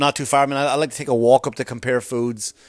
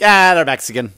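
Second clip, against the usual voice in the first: mock ignorant guess; 3 semitones higher, 6 dB louder than usual. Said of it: "this is not me just going like".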